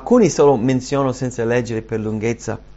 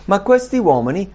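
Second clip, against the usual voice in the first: usual speaking voice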